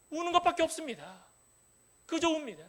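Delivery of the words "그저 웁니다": usual speaking voice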